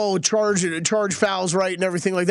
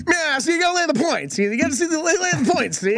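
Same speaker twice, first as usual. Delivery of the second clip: put-on higher, old-time radio gangster voice; old-timey voice; 7 semitones higher than usual. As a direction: ham up an old-fashioned 1950s voice. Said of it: "You forgot the old-timey voice".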